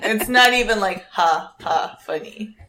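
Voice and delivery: trying not to laugh; smiling voice. Real, not acted. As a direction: protest while smiling. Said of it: "I can hear the smile in your voice".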